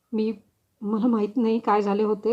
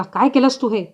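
loud, higher furious yell; angry shout; 3 semitones higher, 6 dB louder than usual. Acted. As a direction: bark the accusation after slapping her. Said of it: "रागाने मला झापड मारली आणि ओरडला". (संतापून ओरडणे)

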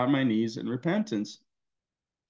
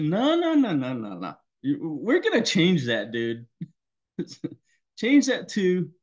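playful Spirit voice; 4 semitones higher than usual. Retold or imitated. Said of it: "the Spirit told me this morning".

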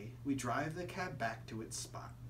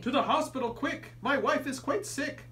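urgent, frantic; 10 semitones higher, 5 dB louder than usual. Acted. Frantic father in the story.

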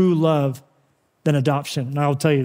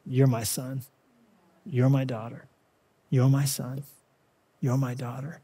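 hushed and low, much softer, near a whisper; still small voice; 4 semitones lower, 8 dB quieter than usual. Acted. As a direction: lean in and barely voice it, like a secret blessing. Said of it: "still small voice of the Holy Spirit".

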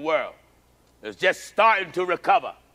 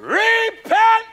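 high, loud shouted Repent; fiery preacher's cry; preached shout; 7 dB louder than usual. Acted. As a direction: cry it out to the church. Preacher echoes call to repent.

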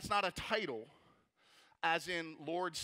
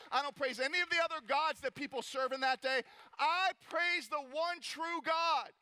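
building praise; 2 semitones higher than usual. Retold or imitated. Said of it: "this is what they said".

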